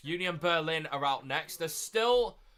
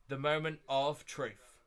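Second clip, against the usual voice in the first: "The moment of truth" drawn out slowly; slow, deliberate "moment of truth"; slow suspense; slower than usual. Real, not acted. Repeats for suspense before draw.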